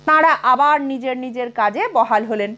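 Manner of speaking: ordinary delivery, nothing marked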